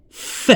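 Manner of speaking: isolated F sound, held apart; "F" as a lone phonics sound; F consonant pronounced alone. Shown as a demonstration. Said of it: "هادي se prononce".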